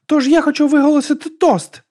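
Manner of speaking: high, loud announcement; loud, high tipsy proclamation; proposing a toast. A narrator's reading. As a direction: call out grandly to the whole company. Drunk heroine proposes a toast.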